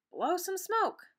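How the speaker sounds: mother suggesting her son blow smoke. Acted. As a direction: speak as Dexter's mother, gently.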